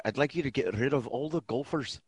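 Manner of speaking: low, quiet, pompous; haughty club owner; Judge Smails quote. Retold or imitated. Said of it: "my favorite interaction".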